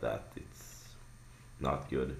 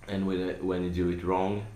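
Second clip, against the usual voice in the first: choking scream; 4 semitones higher, 4 dB louder than usual. Shown as a demonstration. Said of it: "it will sound like more, um, choking".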